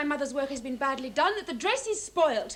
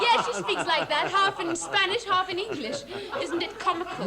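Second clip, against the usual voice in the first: higher, amused voice with laughter; amused laughing; 5 semitones higher than usual. Acted. Stepdaughter explaining Madame's comical speech, laughing. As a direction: share the joke, laughing as you explain.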